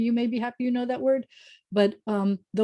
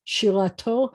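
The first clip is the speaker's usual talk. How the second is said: Shirato with the weight on TO; stress on final syllable; 4 dB louder than usual. Shown as a demonstration. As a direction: lean on the end of Shirato. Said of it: "the accent's at the end of the word".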